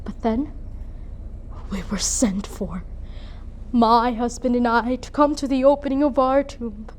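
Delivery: grave, measured recollection with heavy pauses; solemn dramatic monologue. Acted. Mother recalls being sent for to the tomb, solemn. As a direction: let each phrase settle, softening at the end.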